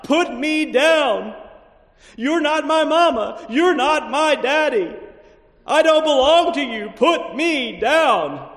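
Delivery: loud, high, slow retold child's scream; hollering child. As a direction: scream it like a furious little girl pulling away. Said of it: "She hollers out".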